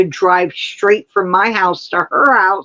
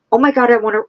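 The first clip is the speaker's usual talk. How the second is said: ordinary talk, nothing marked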